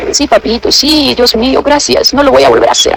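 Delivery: soft, meek voice. Retold or imitated. Ar answering God softly in the prophecy, meek. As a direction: say it meekly, like a child thanking his father. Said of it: "con palabras tan suaves".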